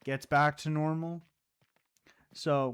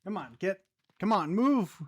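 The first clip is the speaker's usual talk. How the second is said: hurrying someone; 6 semitones higher, 5 dB louder than usual. Real, not acted. Urging character in game.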